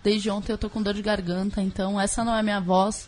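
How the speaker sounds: sore-throat hoarse voice. Real, not acted. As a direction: speak with a sore, croaky throat. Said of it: "desculpa a minha voz de pato".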